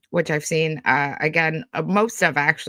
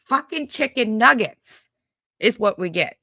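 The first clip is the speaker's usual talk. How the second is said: exasperated outburst; 3 semitones higher, 5 dB louder than usual. Real, not acted. Ranting to viewers about nugget video, exasperated. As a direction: spit it out, fed up.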